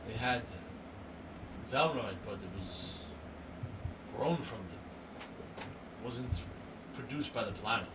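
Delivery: lightly voiced halting creature witness; Zint. Zint haltingly describing creatures to the questioner, a word at a time. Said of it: "Zint would chime in here, like".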